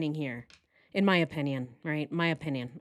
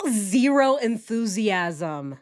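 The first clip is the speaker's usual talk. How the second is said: slow, drawn-out flat delivery; flat, no enthusiasm; 4 dB louder, much slower than usual. Shown as a demonstration. Reacting to the husband, deadpan and slow. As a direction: say it with zero interest. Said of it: "He has zero enthusiasm in his voice".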